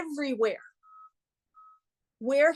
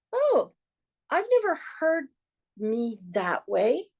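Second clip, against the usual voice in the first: pleasant surprise. Pretend. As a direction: act out discovering yourself with surprise. Acting out a surprised self-discovery.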